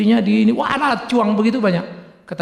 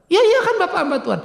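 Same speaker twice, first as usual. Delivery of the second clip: mock insisting; 11 semitones higher, faster than usual. Retold woman insisting.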